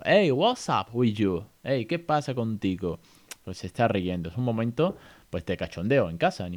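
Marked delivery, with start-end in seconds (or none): 0.0-3.0 slow, sing-song teasing; slow cooing tease; playful baby talk. Shown as a demonstration. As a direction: coo at a giggling baby. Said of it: "le digo".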